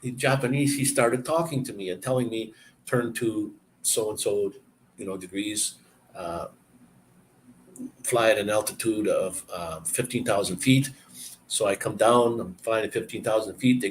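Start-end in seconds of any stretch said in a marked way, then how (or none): 2.8-10.9 broken English controller. Retold or imitated. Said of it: "the guy in broken English".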